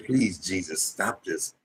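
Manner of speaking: soft broken plea; a hushed, exhausted prayer; begging God. Retold or imitated. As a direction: beg quietly, worn out from crying. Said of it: "when you begging God".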